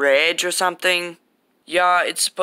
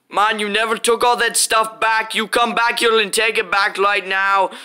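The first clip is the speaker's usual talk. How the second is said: angry demand; 5 semitones higher, 3 dB louder than usual. Acted. Angry demand after insults.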